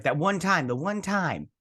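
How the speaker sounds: high-pitched defensive retort; mock protest. He answers her jab about the recorder, protesting. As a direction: imitate someone protesting, voice jumping up.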